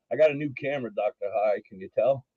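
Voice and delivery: muffled mic sound; like talking through a pillow. Real, not acted. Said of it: "you sound like you're talking through a pillow".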